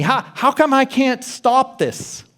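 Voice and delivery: a hint of panicky self-questioning; anxious inner voice. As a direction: voice the worried inner critic. Voicing anxious inner thoughts.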